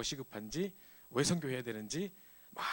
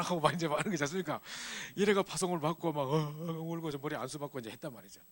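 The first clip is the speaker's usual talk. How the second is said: ordinary delivery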